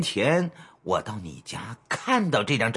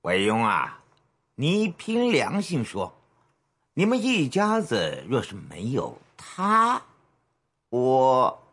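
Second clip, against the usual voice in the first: greedy leer; 4 semitones lower than usual. Acted. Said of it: "贪婪地笑眯眯指着墙".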